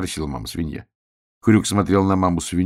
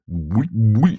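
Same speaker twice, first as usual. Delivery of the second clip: mock gurgle in a changed voice; bubbling water sound; 5 semitones higher, 4 dB louder than usual. The water gurgles as Hrjuk is washed. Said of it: "булькнула вода".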